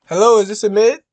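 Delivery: upbeat customer-service voice answering the phone; bright phone greeting. Real, not acted. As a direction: greet the caller with energy.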